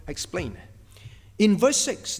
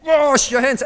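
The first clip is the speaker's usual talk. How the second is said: "Wash your hands" pitched up and louder; louder command; 6 semitones higher, 6 dB louder than usual. Shown as a demonstration. Parent insisting to child, raised voice. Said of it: "And not only you say".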